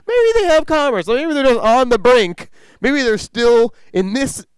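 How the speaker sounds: high, loud, slowed visionary rant; hammed-up enthusiasm. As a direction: sell the alien market like a zealot. Colleague enthusing about alien commerce.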